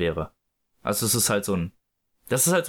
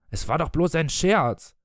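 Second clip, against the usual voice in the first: mild bellow, higher in pitch; 4 semitones higher than usual. Acted. Husband defends his trick to his wife, mild bellow. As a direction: protest with a small, raised-pitch outburst. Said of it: "brüllte er".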